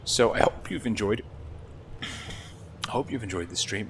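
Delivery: hushed but forceful whisper-shout; whisper yelling. Real, not acted. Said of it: "me whisper shouting into, into the mic".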